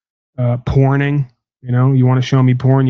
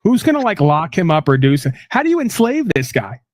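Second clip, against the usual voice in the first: high, hammed-up Jamaican accent; teasing the caller with a mock Jamaican accent; 5 semitones higher than usual. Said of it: "I'm doing the Jamaican now".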